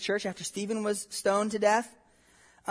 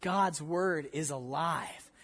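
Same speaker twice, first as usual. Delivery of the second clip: much softer, slow, mysterious whisper-like reveal; hushed awe; 3 semitones lower, 6 dB quieter, slower than usual. Retold or imitated. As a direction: pastor hushing the kids in wonder. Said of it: "and he'd say".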